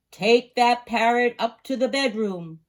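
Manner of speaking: loud firm command; stern order. A narrator's reading. Father ordering his daughter, loud. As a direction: order it out of the room. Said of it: "Papa ordered".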